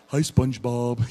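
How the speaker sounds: slow, dopey cartoon sidekick; Patrick. Dad performing for his little daughter, slow Patrick impression. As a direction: answer slowly in a dim cartoon pal's voice. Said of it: "Hi, Patrick".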